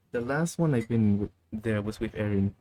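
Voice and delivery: talking through a burp; burpy, after a cold drink; burping after fizzy drink. Real, not acted. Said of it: "I'm burping".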